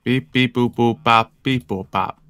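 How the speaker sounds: beep-boop robot noises. Acted. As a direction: chant it like a cartoon robot. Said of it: "Don't go SpongeBob on me".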